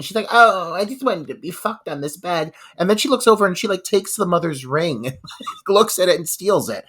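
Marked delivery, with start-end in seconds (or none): 0.3-2.5 mock pout. Retelling the spurned girlfriend's complaint, mock pouting. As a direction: imitate a sulky pout. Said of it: "she, like, lays back pouting".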